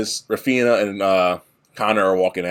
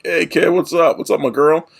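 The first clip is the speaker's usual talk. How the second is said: high, loud cocky greeting from a car; brash cool-guy hello, pitched up and loud; loud eighties cool guy; 10 semitones higher, 4 dB louder than usual. Retold or imitated. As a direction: play the swaggering eighties boyfriend. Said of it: "being all loud and quote-unquote a cool guy from the eighties".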